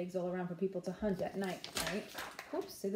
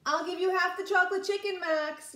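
higher, louder coaxing yell; 9 semitones higher, 4 dB louder than usual. A narrator's reading. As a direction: bargain loudly to lure him out. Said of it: "yelled Ruby".

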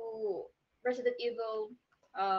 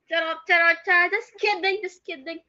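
laughing takeback; 5 semitones higher, 7 dB louder, faster than usual. Real, not acted.

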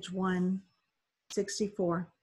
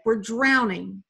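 slow, louder, drawn-out plea; desperate plea; 3 semitones higher, 7 dB louder, slower than usual. Acted. Drowning boy begs the boat, slow desperate plea. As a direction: stretch each word in desperation. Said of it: "Mahmoud begged".

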